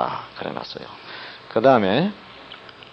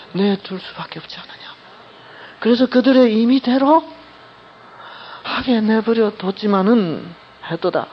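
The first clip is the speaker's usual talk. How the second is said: read with love; 4 semitones higher than usual. Shown as a demonstration. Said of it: "그 사랑이 가득한 채로 읽어야 돼요".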